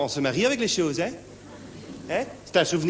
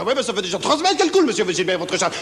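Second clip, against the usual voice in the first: nagging neighbour; 3 semitones higher, 4 dB louder than usual. Acted. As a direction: rattle off the complaint. Neighbour nags Gilbert.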